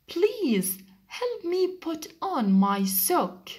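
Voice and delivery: high, slow pleading; pleading duck. Acted. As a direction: beg for help with the sock. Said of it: "Said the duck to the chick".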